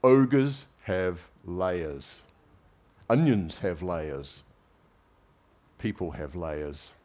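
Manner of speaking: slow, lightly Scottish Shrek voice; a hint of a Scottish ogre; Scottish accent. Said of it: "Can't do the Scottish accent very well".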